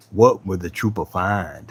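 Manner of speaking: slow, low, dramatic narrator line with a laugh; mock show narrator, drawn out; lightly voiced TV narrator teasing the question; imitating the narrator. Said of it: "I love when he says that".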